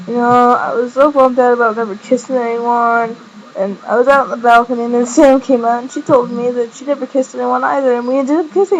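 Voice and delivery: mildly impassioned retelling; imitating a heartfelt admission; passionate confession. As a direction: confess it earnestly, pitch gradually rising. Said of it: "this next part was so much passion".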